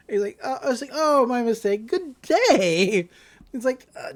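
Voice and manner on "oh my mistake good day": mock-cheery correction; mock-polite. She corrects her insult, mock-polite. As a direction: swap the insult for an exaggerated courtesy.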